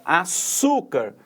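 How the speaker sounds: "açúcar" slowly, "çú" held long; stress on penultimate syllable. Shown as a demonstration. Teacher reviewing the second word, stretched stress on "açúcar". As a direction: draw out "çú" in "açúcar". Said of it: "a sílaba tônica está na penúltima".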